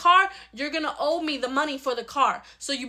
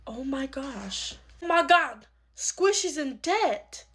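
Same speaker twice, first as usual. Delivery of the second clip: shocked discovery; much slower than usual. Acted. Discovers debt in papers.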